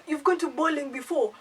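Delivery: mock British accent on a question; fake UK accent. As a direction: imitate him with a slightly phony UK accent. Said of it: "fake U K accent".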